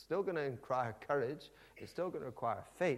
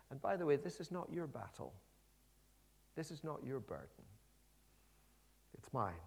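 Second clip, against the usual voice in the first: reassuring; 4 dB quieter than usual. Acted. God reassuring Elijah gently.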